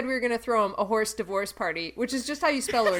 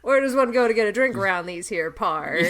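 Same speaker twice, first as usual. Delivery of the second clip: bad Southern accent; 3 semitones lower than usual. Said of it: "my Southern accent is too Canadian".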